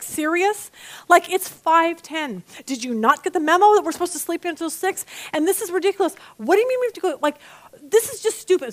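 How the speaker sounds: a grumpy wife griping at her husband, whiny; whining complaint. Retold or imitated. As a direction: whine like someone woken far too early. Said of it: "So I was just whining and carrying on".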